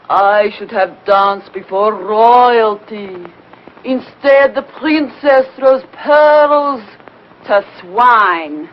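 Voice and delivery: slow, dramatic declaiming of "royalty" and "pearls"; grand lament. Acted. Vain dancer repeats her lament, slow and theatrical. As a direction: drag out the self-pity like a tragic diva.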